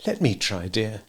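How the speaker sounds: soft, calm and gentle; placid. Acted. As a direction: soothe the ranting husband. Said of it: "Missus Darling was placid".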